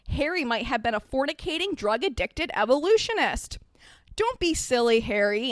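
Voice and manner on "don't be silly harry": lightly scolding aunt; understated order to a child; a touch of brisk reproof; mild command. Acted. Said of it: "Aunt Petunia commanded".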